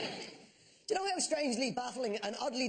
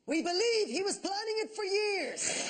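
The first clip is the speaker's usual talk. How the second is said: mock zookeeper shout; 8 semitones higher, slower than usual. Zookeeper quoted in the newspaper, slow mock shout. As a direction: bellow it like a solemn official. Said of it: "his zookeeper said".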